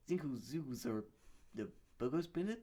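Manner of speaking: a hint of a silly alien. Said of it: "The part that I'm doing the alien is".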